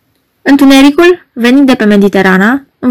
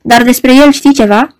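pleading; 2 semitones higher than usual. Acted. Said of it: "șopti rugător Margareta".

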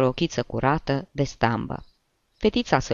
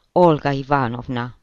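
răsuflare tăiată; 4 dB louder than usual. Acted. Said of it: "cu răsuflarea tăiată de emoție".

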